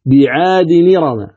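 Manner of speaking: "بعاد نرم" joined slowly as bi-'aadi-ni-rama; slow, linked "بعاد نرم" with nirama; transferred hamza vowel. Shown as a demonstration. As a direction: drop the hamza, linking "بعاد نرم" through a ni syllable. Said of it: "فتقرأ بعد النقل".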